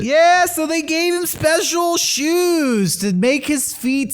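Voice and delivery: high, fast cutesy voice. Pretend. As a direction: talk like to a baby animal. Cute voice for old penguin.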